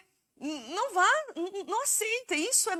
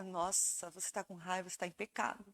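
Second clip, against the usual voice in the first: mock scolding; 8 semitones lower, 11 dB quieter than usual. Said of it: "mocking judgmental believers".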